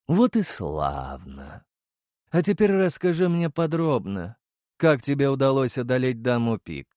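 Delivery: pleased and in full control; calm commanding emperor. Acted. Emperor questions the hero.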